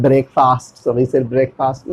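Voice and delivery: breakfast read as spelt, "brake-faast"; wrong pronunciation. Shown as a demonstration. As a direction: say breakfast with a long open "faast". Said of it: "no।". (breakfast को ब्रेक-फ़ास्ट पढ़कर)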